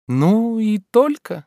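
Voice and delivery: high, slow, distracted drawl; absent-minded. A narrator's reading. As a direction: trail off, looking around. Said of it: "рассеянно добавила она". (рассеянно, протяжно)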